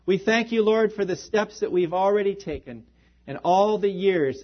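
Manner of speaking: earnest, measured prayer voice; closing prayer. Acted. Pastor closes the sermon in prayer to God, earnest and measured. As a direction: pray over the congregation sincerely.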